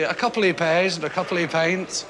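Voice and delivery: lightly imitated posh-Fife accent; a hint of Fife under posh vowels; posh Fife mixture. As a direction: try a genteel accent mixed with Fife. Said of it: "in with a sort of Fife accent".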